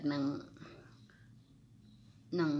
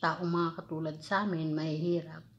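muffled words between bites; talking while chewing. Real, not acted. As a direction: mouth partly full of food. Seen 0: Bites orange pieces from fork; lips pursed, chewing between words.

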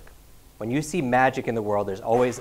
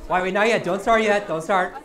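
calling out a halt; 6 semitones higher, 3 dB louder than usual. Real, not acted. Stopping audience starting early.

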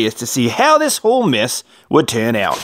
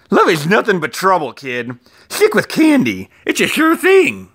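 wise-guy Valentine; 7 semitones higher than usual. A narrator's reading. Valentine lectures Leon.

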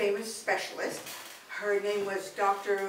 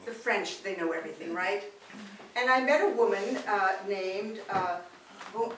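normal talking voice

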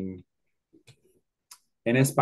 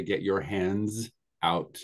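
slow and clear; slower than usual. Shown as a demonstration. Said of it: "we can also say".

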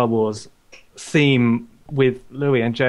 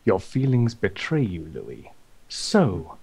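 Darth Vader parody; 3 semitones lower than usual. Acted. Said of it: "the speaker's version of that".

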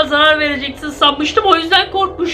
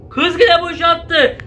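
slow exasperated complaint; 3 semitones higher, slower than usual. Real, not acted. Exasperated comment.

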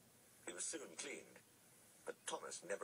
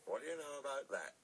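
high, amused surprise; higher, tickled disbelief; amazed exclamation; 7 semitones higher than usual. A narrator's reading. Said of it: "he exclaimed".

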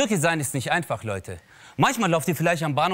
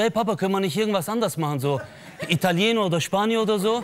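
put-on pleading child; 4 semitones higher, faster than usual. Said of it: "Und ich so".

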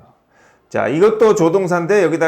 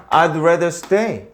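slow model reading; much slower than usual. Shown as a demonstration. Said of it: "teacher models sentences".

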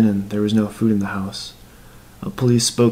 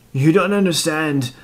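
put-on higher, pleading old man; feeble tearful plea; 7 semitones higher than usual. A narrator's reading. Old killer pleading with the dead man, mildly tearful. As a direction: plead with a touch of tears. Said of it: "crying feebled old man tears".

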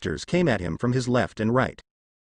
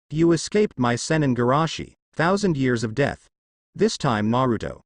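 overly dramatic. Acted. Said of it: "in an overly dramatic fashion".

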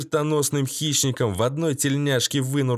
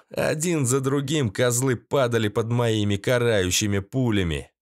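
ordinary delivery, nothing marked

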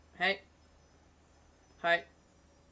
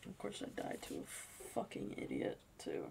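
bitter whisper; 13 dB quieter than usual. Real, not acted. Bitter aside after dying.

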